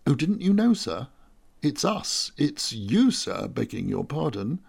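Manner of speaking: a deferential servant spilling the news; chatty slave. Acted. Slave Aratus explains to master.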